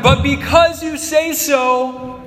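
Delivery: Peter's line pressed out slowly and with weight; emphatic Peter. Retold or imitated. Pastor acting Peter for the congregation, slow and emphatic. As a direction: lean on it, surrendering though it makes no sense. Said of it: "he says in verse five".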